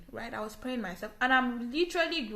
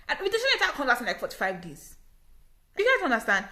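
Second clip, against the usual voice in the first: laughing; 3 semitones higher, 6 dB louder, faster than usual. Real, not acted. Laughing at the absurd wait.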